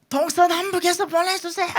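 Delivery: very high, loud, strained plea; hammed-up full-force crying out in prayer; 홍 목사님's shouted prayer. Preacher imitates pastor praying for provision from everywhere, shouted plea. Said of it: "앞에 큰 소리 뻥 치고".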